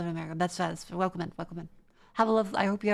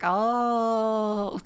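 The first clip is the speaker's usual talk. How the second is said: dawning realisation; 5 dB louder than usual. Retold or imitated. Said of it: "and now I'm like".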